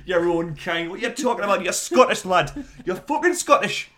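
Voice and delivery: loud, high, laughing disbelief; incredulous laughing outburst. Real, not acted. Mocking a Scottish friend's claim, loud incredulous laughter. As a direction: shout him down through a laugh.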